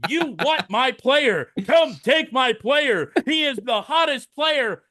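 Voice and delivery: a hint of a boastful car-lot pitch; confident salesman GM. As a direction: sell it like a proud huckster. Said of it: "answer the phone and go".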